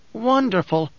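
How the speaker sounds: high-pitched, lingering delight; breathed in wonder. A narrator's reading. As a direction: breathe it out as a marvel. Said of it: "Skytail breathed".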